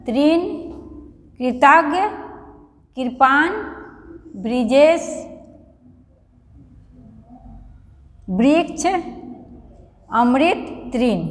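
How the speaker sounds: each word said slowly and clearly on its own with a rising end; carefully read word list. Shown as a demonstration. Teacher reads ri-matra words to students, carefully pronounced. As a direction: model every ri-matra word for the class. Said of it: "सब में री की मात्रा लगा हो".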